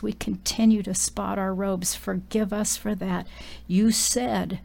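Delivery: steady heartfelt prayer voice; a preacher's closing prayer; earnest prayer. Acted. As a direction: pray it out, devoted and earnest.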